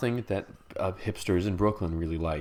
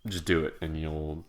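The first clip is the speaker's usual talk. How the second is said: ordinary talk, nothing marked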